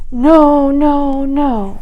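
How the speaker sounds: loud, high refusal; child's protest. A narrator's reading. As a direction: stamp it out.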